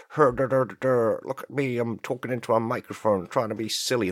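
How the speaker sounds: a hammed-up mock of a silly podcaster. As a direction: play a goofy podcaster, mocking. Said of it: "parody a podcaster".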